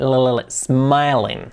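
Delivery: isolated "l" sounds, then slow "smiling"; clear L. Shown as a demonstration. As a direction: draw out the L in "smiling". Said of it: "Y la L".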